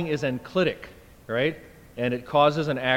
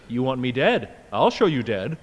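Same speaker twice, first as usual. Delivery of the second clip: louder mock-furious father's retort; imitating an angry father; 5 dB louder than usual. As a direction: voice an offended father snapping back, louder. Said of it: "because he's just said".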